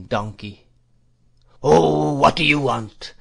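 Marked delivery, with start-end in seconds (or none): 1.6-3.1 put-on high, loud whining old man; fierce monotonous whine. A narrator's reading. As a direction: whine it fiercely with a long-drawn "Oh". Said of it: "in a fierce monotonous whine".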